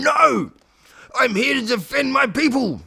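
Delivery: high, loud proclamation; heroic declaration. Acted. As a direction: stand tall and declare it. Cat's heroic reply.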